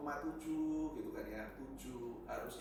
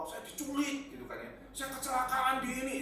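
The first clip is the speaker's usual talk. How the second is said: mock panic; 9 semitones higher, 7 dB louder than usual. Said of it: "Waduh, ketakutan saya kan".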